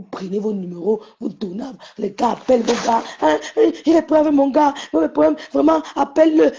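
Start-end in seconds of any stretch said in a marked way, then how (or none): 3.2-6.5 high, urgent imitation of a complaining caller; pleading caller. Woman begging tata to call her man, urgent pleading. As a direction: press the plea in a raised voice. Mimics women phoning about their men.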